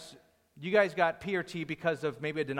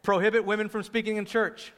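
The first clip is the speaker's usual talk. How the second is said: calling out; 4 semitones higher, 5 dB louder than usual. Real, not acted. Calling out quiz items to congregation.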